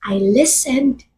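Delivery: slow, deliberate deadpan punchline; slow deadpan twist. Acted. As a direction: drop the verdict slowly. Punchline reversing the mantra. (mabagal at seryosong banat)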